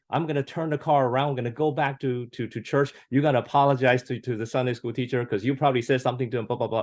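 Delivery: high mock parent threat; lightly voiced angry parent, rushed; scolding parent. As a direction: imitate the strict dad turning the car around. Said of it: "it would say".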